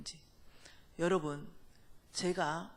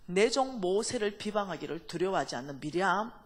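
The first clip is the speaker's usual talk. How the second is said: louder, commanding call; angry summons; 4 dB louder than usual. Retold or imitated. God angrily calling Miriam and Aaron to judgment. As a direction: summon the offenders in wrath. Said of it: "하나님이 이빨 열받으신 거예요".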